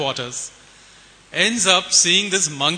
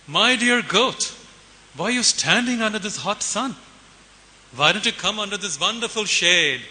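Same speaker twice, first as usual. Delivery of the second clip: coaxing crocodile. Acted. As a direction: coax like a crocodile luring its prey. Crocodile sweetly luring a goat.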